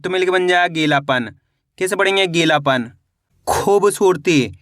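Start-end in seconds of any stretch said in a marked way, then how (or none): 3.5-4.5 खूबसूरती slowly, as खूब then सूरती; slow word-part reading. Shown as a demonstration. Teacher showing learners how to read a long word, slowly in parts. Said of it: "पहले खूब पढ़ो, इसके बाद सूरती पढ़ो".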